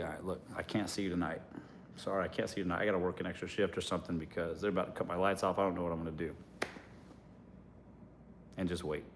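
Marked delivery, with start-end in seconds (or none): 0.0-6.3 hushed, fast pretend panic; whispery mock distress, rushed; mock worried phone call. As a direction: softly fake a crisis to get money. Acting out a fake money panic.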